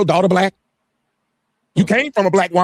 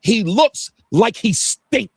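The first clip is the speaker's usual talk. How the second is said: slow, drawn-out mocking of the commenter; sneering at a childish insult, very slow; mock quote; 6 semitones higher, much slower than usual. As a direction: drag it out like a silly schoolyard taunt. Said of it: "she just needs to say".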